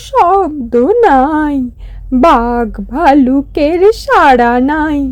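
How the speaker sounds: slow, drawn-out storyteller voice; fairy tale narration. A narrator's reading. Narrator telling listeners of the prince's journey, slow storytelling. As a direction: unfold the prince's long walk slowly, like a bedtime tale.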